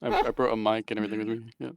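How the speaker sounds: muffled voice, hand over mouth. Real, not acted. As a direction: speak through a covered mouth. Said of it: "I'm a bit muffled".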